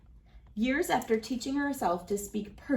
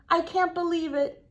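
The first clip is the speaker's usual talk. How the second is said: high, breathless disbelief; stunned; 8 semitones higher, 3 dB louder than usual. A narrator's reading. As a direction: gasp it out as if the statue can't be real. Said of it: "says a stunned Rita".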